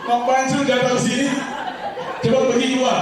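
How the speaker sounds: angry patient. Retold or imitated. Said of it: "Marahnya luar biasa".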